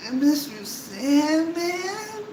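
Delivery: high, slow mournful mock croon; mock the sad song, slowly; sad sounding. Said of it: "sad sounding".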